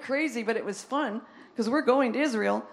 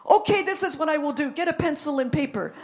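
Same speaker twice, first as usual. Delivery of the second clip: sudden eager turn; 4 semitones higher, 5 dB louder than usual. Retold or imitated. Raymond suddenly decides to help.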